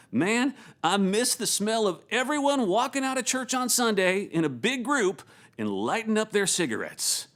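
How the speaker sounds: attempted North Carolina accent; Jason's North Carolina accent. Worship pastor reminiscing to a colleague, attempted North Carolina accent. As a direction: put on a rough North Carolina twang. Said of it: "I'm trying to do Jason's accent".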